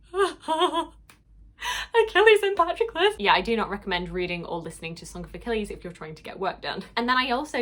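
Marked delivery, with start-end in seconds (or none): 0.0-3.1 slow, high, loud half-laughing wail; laughing sob. Retold or imitated. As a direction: wail the names through a laugh. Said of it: "I was like".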